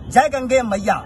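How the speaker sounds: shouting. Real, not acted. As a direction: call it out with full voice. Devotional salute closing the speech.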